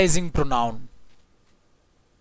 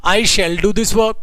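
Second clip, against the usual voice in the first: plain sentence drawn out slowly; slow plain dictation; much slower than usual. Shown as a demonstration. Teacher dictating the plain sentence slowly. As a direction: read it out slowly for students to repeat. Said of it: "sentence सिर्फ ये बोलता हूं".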